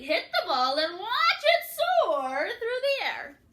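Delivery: loud, high, thrilled telling; excited. A narrator's reading. Reader thrilled as Grandma hits the ball. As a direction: let the hit fly with joy.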